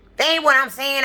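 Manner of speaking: put-on voice turning heated. Retelling an argument with a woman who got heated: imitating a woman raising her voice. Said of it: "Now she getting her little voice up".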